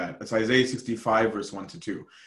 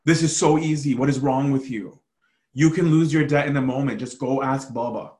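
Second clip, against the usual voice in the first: exasperated anger; 3 semitones higher, 3 dB louder than usual. Acted. Preacher acts out a man mad at his brother, exasperated. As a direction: berate a brother in disbelief. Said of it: "somebody so mad at his brother".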